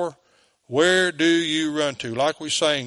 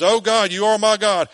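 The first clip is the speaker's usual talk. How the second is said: fervent cry; 5 semitones higher, 5 dB louder than usual. Acted. Reading psalm with fervor.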